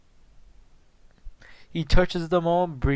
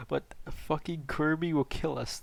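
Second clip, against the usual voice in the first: ordinary delivery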